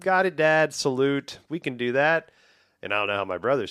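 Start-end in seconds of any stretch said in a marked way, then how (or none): 0.0-2.3 mock eager salute. Boy answering dad on phone.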